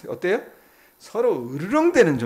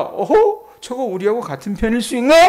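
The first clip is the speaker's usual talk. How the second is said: mock surprise; 5 semitones higher than usual. Pharisees realizing Paul's side.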